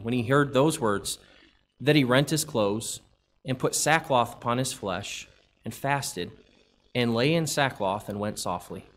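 measured King James reading cadence; scripture reading. Acted. Preacher reading First Kings to the congregation, measured scripture cadence. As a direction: read the old verses with steady weight. Reads scripture passage aloud.

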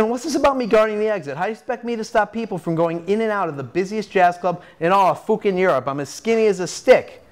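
high-pitched, indignant complaint; acted, worked-up objection; exasperated protest. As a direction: protest the impossible job. Charlie protests his guard duty.

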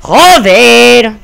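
long, loud, high curse; real raging shout; frustrated yell. Real, not acted. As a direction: bellow it out in exasperation. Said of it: "Es que no grito más porque".

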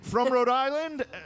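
high, slow, tentative voice; hesitant congressman. Acted. First congressman to speak on age of consent, hesitant. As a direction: offer it up awkwardly, pitched high.

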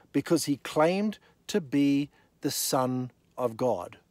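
slowed for weight; slow, deliberate. Shown as a demonstration. Preacher repeating the verse slowly for attention. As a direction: let each word land slowly. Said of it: "Listen to Pilate's response".

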